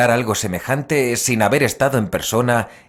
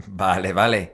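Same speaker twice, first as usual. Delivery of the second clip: laughing; 4 semitones lower than usual. Acted. Pablo ríe, burlado.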